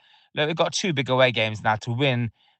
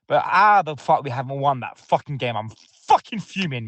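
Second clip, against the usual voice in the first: real anger, swearing hard; fuming. Real, not acted. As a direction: boil over at the dropped points. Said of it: "I need to calm down".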